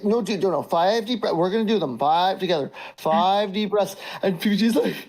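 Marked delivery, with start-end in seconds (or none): 0.0-3.9 mock calming coach. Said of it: "and he's like".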